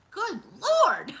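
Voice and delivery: high laugh of disbelief; "Good Lord" breaking into a high laugh. Real, not acted. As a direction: laugh it out, amazed. Laughs at cone number three.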